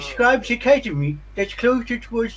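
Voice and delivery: toothy townsperson. Acted. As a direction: play a sibilant local, pitched well up. Game master voices a townsperson.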